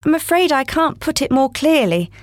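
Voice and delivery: put-on a polite little girl explaining. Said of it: "Alice replied very politely".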